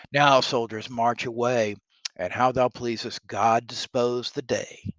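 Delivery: lightly declaimed command, loud opening, measured close; rallying king. Acted. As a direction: send the troops off to battle. Reads the king sending soldiers off.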